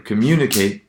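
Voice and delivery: "communicate" stressed on MU; unmoved stress. Shown as a demonstration. Lecturer comparing derived forms, "communicate" stressed on MU. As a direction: keep the weight on the second syllable of "communicate". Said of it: "the stress doesn't move".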